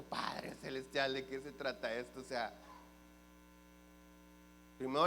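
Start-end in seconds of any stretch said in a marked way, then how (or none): 0.0-2.2 inward prayer. Retold or imitated. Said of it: "Yo por dentro".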